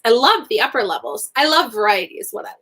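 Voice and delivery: out of breath, hurried; breathless, catching air; after a workout. Real, not acted. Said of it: "Catching my breath".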